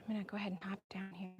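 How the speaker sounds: fast unvoiced whisper; hurried whisper while hopping down. Real, not acted. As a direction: whisper it quickly under your breath. Whispered aside while dismounting.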